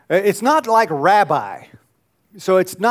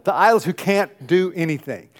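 normal talking voice

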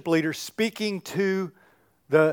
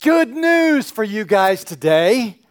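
higher, louder, slow announcing of good news; joyful worship leader; 8 semitones higher, 6 dB louder, slower than usual. Acted. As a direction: proclaim it to the crowd with delight. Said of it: "this is the worship leader telling you".

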